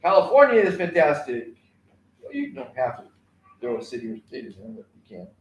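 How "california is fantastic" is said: rally call. Shown as a demonstration. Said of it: "you want them to say".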